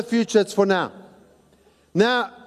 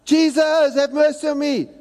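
1 retold cry out; 5 semitones higher than usual. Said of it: "cried out even louder".

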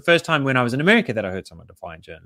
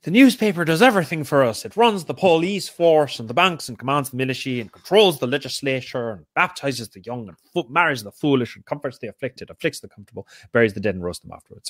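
light mock Irish bartender accent; hint of an Irish accent, quoting a columnist. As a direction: read it like an Irish barman, lightly. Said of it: "had to do it with Irish".

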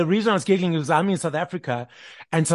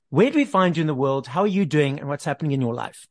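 ordinary talk

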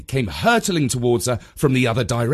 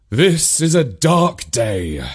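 mock-solemn dad; 3 semitones higher, 5 dB louder, slower than usual. A narrator's reading. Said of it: "declared Dad".

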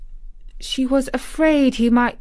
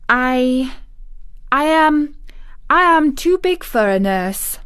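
put-on higher, halting little girl; choked up, hesitant; 6 semitones higher, 4 dB louder than usual. A narrator's reading. Mary objecting to a nurse, nervous and halting. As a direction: start and restart past a lump in the throat. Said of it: "the lump in her throat choked her".

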